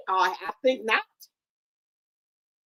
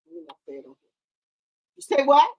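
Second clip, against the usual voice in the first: slow menacing challenge; 8 semitones lower, 4 dB louder, much slower than usual. Acted. Dramatic challenge to kid.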